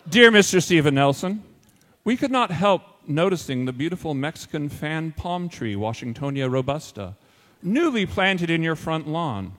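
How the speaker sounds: formal, deliberate notice with pointed emphasis; mock-official letter reading. Finkelstein writing to another neighbor, mock-official reproach. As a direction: read it as a pompous letter of complaint. Reads out the second fake letter.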